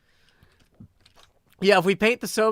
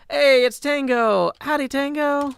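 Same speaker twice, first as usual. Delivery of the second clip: loud greeting; 8 semitones higher, 7 dB louder, slower than usual. Real, not acted. Greeting Tango loudly.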